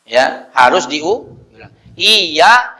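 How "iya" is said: "Iya" with a held, doubled y; raised, stressed "Iya" with tasdid; doubled consonant. Shown as a demonstration. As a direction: lean hard on the y of "Iya". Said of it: "ini tasdid kan".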